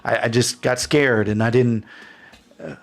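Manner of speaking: flustered, stumbling excuse; anxious apology. Acted. Frightened man apologizing in story.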